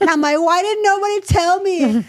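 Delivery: incredulous rant about the IRS; exasperated disbelief. Retold or imitated. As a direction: throw your hands up at the tax bill. Exasperated retelling of tax shock.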